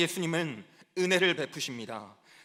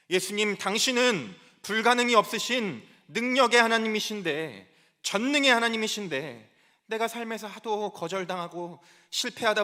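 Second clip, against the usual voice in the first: higher-pitched, insistent pleading; desperate outcry; 3 semitones higher than usual. Acted. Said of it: "절규하는 거예요".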